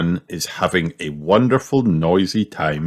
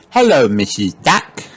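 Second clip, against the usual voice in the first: higher, called-out greeting; crying out; 5 semitones higher, 3 dB louder than usual. A narrator's reading. Child greeting a duck at pond, crying out. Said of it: "cries Peppa".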